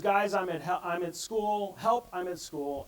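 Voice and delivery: a scared student typing under the desk, reading it urgently; panicked kid. Retold or imitated. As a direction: read out in a loud, urgent voice. Panicked student's message read aloud.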